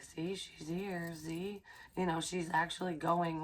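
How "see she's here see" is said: quiet, slow pointing-out voice; softly voiced observer, unhurried. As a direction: hush it like a watcher noting her. Voicing CCTV watchers.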